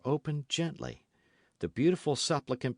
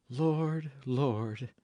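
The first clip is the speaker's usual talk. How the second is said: meek; 2 semitones higher than usual. Acted. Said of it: "with an angelic meekness of gesture and tone".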